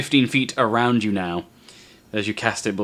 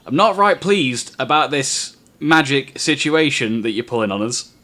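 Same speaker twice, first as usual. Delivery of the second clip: displeased guard voice; 4 semitones higher, 4 dB louder than usual. Acted. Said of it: "And the young one says".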